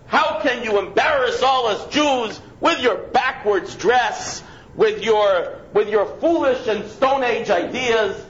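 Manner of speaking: mock tirade of a scolding woman; berating woman. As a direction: berate him like a stranger on the subway. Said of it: "begins to berate him".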